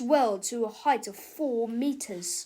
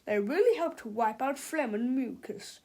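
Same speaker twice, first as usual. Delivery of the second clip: salesman voice. Acted. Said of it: "said Mister Snoddy".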